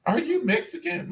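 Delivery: mock amazement. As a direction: imitate an amazed woman, pitch climbing to the question. Imitating an amazed woman's compliment.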